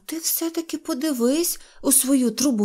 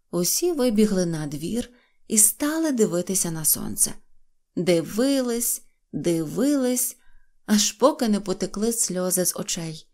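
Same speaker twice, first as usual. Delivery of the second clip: usual speaking voice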